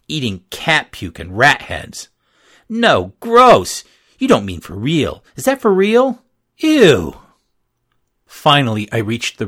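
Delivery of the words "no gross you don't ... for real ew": high, loud squeals of disgust; disgusted girls. A narrator's reading. Girls mocking the poor kids, squealing in disgust. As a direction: shriek it like a snooty girl.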